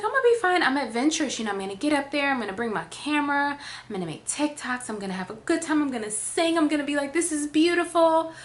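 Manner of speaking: high bubbly overconfident; a touch of mock giddiness; naive excitement. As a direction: gush like a carefree tourist. Naive confident past self.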